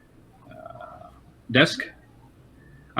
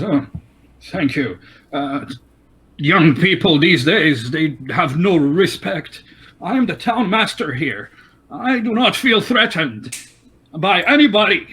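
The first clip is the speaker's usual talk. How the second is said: higher, pompous elder's voice; town master; 4 semitones higher, 3 dB louder than usual. Acted. Town master brushes off the prisoner's threat, pompous. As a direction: puff up with self-importance.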